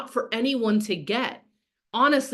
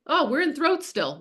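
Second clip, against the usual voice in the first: mock realization; 5 semitones higher than usual. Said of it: "this is like".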